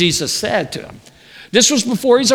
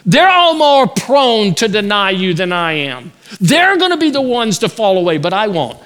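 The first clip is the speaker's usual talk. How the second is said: arrogant boast; 5 dB louder than usual. Acted. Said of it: "He said".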